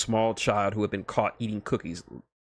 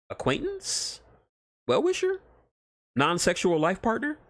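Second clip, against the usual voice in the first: much higher, playful questions; squeaky teasing Wade; 9 semitones higher than usual. Acted. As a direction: pitch each guess way up, teasing. Wade's playful list.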